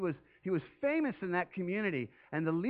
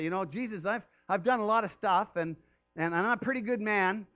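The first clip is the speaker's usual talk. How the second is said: a lightly voiced entitled boast, a bit higher; mock self-important plea; 3 semitones higher than usual. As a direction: sound pleased with yourself, demanding. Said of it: "try to impress him a little bit and say".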